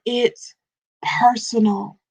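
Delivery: breathy whisper on the word. Acted. Coach whispers to the ladies for emphasis, whispered. Stressing God is personal.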